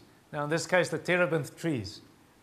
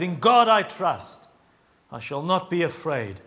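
solemn scripture reading. A narrator's reading. Preacher reads David's psalm to the congregation, solemn and declaiming. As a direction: read it out with weight, line by line.

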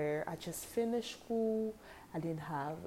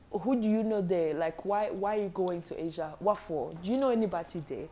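disapproving mother; 4 dB louder, faster than usual. Retold or imitated. Mom questioning the move, retold.

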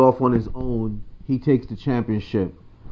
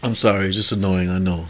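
laughing. Real, not acted. Laughing at his team's loss.

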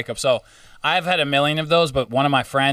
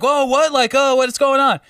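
confused surprise; 10 semitones higher, 4 dB louder than usual. Retold or imitated. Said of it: "they, like, are like".

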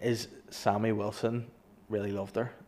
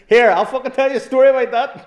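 loud, high heckling voice; hammed-up high heckle; mock shout from the benches; 14 semitones higher, 12 dB louder than usual. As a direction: bellow it across the chamber. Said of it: "Sammy Wilson's like, from the back benches".

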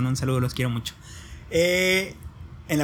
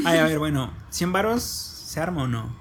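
mock bribe offer; slower than usual. Mock bribing the aunts.

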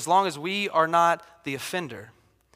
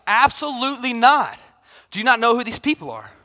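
loud, higher, outraged refusal; flat refusal; 4 semitones higher, 4 dB louder, faster than usual. Retold or imitated. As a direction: refuse outright, indignant. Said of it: "And he's like".

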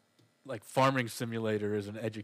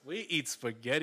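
mock Italian; 3 semitones higher than usual. Mocking stereotyped Italian game voice.

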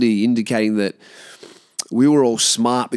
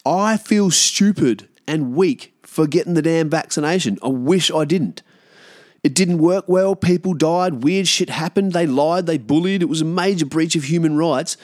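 angry inner rant; 6 semitones higher than usual. Retold or imitated. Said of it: "it made me angry".

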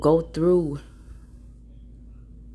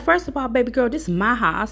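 higher-pitched indignant comeback; mom's retort; 8 semitones higher than usual. Retold or imitated. Mom rebuking son's friend in her house, imitated indignant attitude. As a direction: lightly imitate a mom putting a child in place.

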